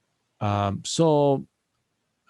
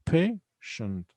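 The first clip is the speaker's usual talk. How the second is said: "Patient" split as pay, shent; two separate syllables; 3 semitones higher, much slower than usual. Shown as a demonstration. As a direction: count out "Patient" in two spaced beats. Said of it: "only two syllables here".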